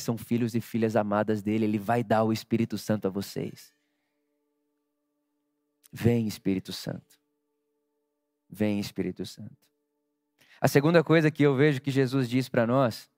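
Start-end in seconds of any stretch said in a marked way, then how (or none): 5.9-9.6 soft invocation. Acted. Pastor invoking the Spirit softly.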